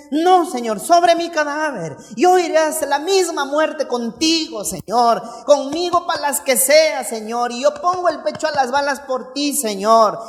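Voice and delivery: fervent boastful pleading, falling on each "Señor"; impassioned bravado. Acted. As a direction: pledge yourself with hammed-up heroics. Peter vowing loyalty to Jesus.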